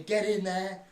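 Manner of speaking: high, loud triumphant cry; celebratory shout. Retold or imitated. Dad cheering the winning frame, loud and triumphant. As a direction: bang the table and roar it.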